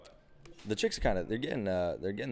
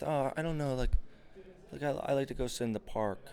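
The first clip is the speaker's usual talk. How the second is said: higher, hesitant mock date; 6 semitones higher than usual. Mocking a date's weak hobby answer, higher and unsure. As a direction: act out the dull reply.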